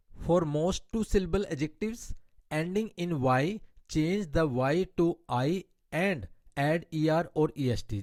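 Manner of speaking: slow, deliberate reading of an English grammar rule. Shown as a demonstration. Teacher reading a grammar rule to her Hindi-speaking class, slow and deliberate. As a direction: spell out the rule word by word for students.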